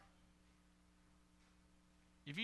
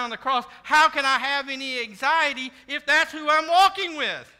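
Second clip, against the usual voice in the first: loud, building to a climax; impassioned preaching; 2 semitones higher, 10 dB louder than usual. Real, not acted. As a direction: preach with rising force to a shouted question.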